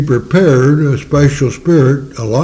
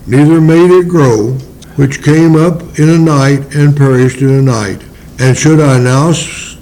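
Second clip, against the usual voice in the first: scripture reading. Acted. Reading the Lord's answer.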